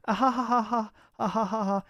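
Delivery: high spelled-out laugh. Real, not acted. Laughing at chat.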